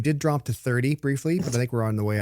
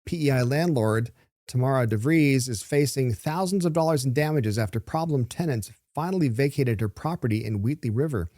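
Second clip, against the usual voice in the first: measured newsreader delivery; presenter reading copy aloud; news read. Real, not acted. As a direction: read the story out with deliberate pauses. Host reads out the news story.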